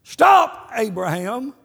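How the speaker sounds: sudden high loud command; God calling out to Abraham, booming; voice from heaven. Retold or imitated. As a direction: thunder it down from above. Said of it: "a voice called out from heaven".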